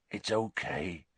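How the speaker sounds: a whispered reassurance to Buckbeak. A narrator's reading. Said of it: "said Hagrid softly".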